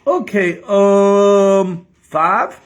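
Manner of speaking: put-on loud, high Kentucky accent, guessing; Southern accent. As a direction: guess aloud as a hammed-up Southerner. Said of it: "I'm gonna have to talk like this".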